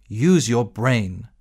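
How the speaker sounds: slow and firm captain; deliberate scolding tone. Acted. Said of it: "I said".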